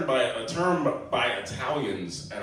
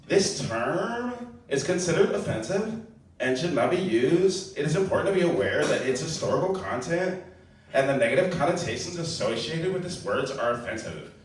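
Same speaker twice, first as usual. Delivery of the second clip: a lightly voiced prissy reader; a hint of a fussy official reading a warning; prim disclaimer read. Shown as a demonstration. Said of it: "read the disclaimer like it sounded in my head".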